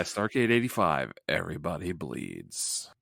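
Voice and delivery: low, hushed tagline read; mock tagline. Co-host pitches the joke tagline, low mock announcement. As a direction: drop low and soft like a poster slogan. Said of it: "That should have been the tagline".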